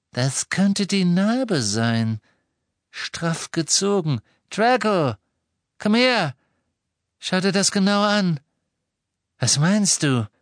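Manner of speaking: high, insistent, excited father; excited urging. A narrator's reading. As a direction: call your son over urgently. Excited father summons his son. (aufgeregt drängend, mit hoher Stimme)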